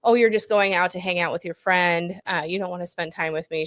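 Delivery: ordinary talk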